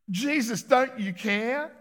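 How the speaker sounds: "don't you care" drawn out slowly, rising; a lightly acted hurt plea; plaintive complaint. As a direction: Martha to Jesus, mildly aggrieved, slow. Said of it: "Think about it".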